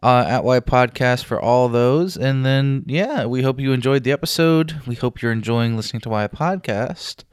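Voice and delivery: echoey room recording; big hall echo. Real, not acted. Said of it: "sorry for the echoiness".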